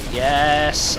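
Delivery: loud burst of triumph; triumphant yes. Real, not acted. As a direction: punch the air with it. Triumph after catching grenade.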